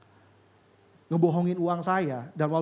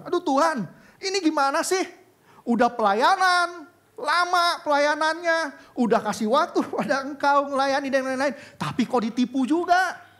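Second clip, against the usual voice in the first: anguished cry to God; 9 semitones higher, 4 dB louder than usual. Retold or imitated. Crying out to God in distress. (seruan putus asa kepada Tuhan, tinggi dan keras)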